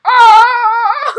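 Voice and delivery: high, loud mock shriek. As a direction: imitate them shrieking. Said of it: "You're like".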